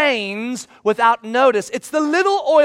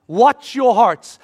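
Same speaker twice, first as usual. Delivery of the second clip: loud slow repeated warning; urgent plea; 6 dB louder, much slower than usual. Acted. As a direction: press it again, slow and firm. Jesus urging disciples.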